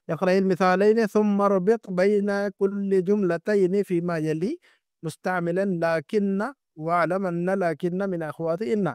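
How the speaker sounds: slow, deliberate reading of the instructions; reading Arabic text. Acted. Teacher reading the textbook instruction to students, slow and deliberate. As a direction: read each Arabic word out slowly and clearly.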